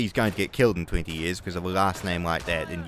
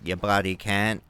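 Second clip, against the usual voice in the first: Australian swear. Shown as a demonstration. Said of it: "Australians say cunt like can't".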